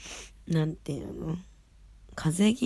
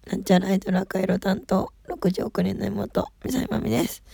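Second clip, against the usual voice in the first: dry, rough hoarse voice; 4 dB louder than usual. Real, not acted. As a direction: talk through a dry, scratchy throat. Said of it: "声がガサガサだなって".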